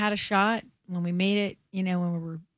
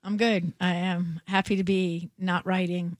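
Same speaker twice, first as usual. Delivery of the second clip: hoarse from a cold, a bit rough. Real, not acted. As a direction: talk through a hoarse voice from a cold. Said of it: "I'm sorry about my voice".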